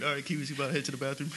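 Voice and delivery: fast, casual self-narration; mock third-person narration; third person talk. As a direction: rattle it off about yourself. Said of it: "talk like that".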